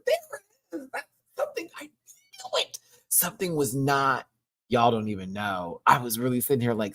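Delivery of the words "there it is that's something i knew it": hushed realization. Real, not acted.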